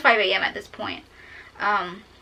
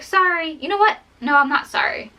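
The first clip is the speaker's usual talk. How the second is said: high-pitched, irritated retraction of an apology; mock apology turning into mild anger; mildly angry; 5 semitones higher than usual. Woman fed up with apologizing to her boyfriend while packing, mildly angry. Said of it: "getting kind of angry".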